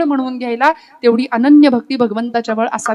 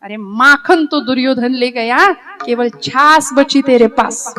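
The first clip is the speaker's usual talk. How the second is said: teasing verse; slower than usual. Acted. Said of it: "कुत्सितपणे विचारलं, चिडवलं, चिडवलं".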